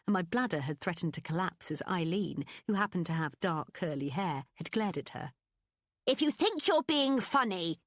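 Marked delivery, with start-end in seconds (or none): 6.0-7.8 slow, high, indignant boss; stern boss. A narrator's reading. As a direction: drag it out with cold indignation. Eileen glaring, angry boss.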